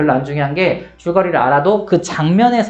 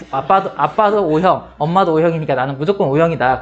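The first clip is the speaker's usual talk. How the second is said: insistent claim; slower than usual. Retold or imitated. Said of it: "그래서 내가".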